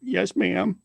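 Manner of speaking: a hammed-up meek husband; mock meek reply. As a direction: play the scolded one giving in. Mock giving in to scolding.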